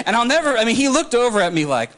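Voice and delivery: ordinary talk, nothing marked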